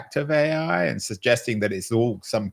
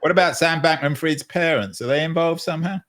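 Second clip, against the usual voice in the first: mock-innocent question, tongue in cheek; facetious; 5 semitones higher than usual. Real, not acted. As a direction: ask it with a sly, teasing air. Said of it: "You're being facetious".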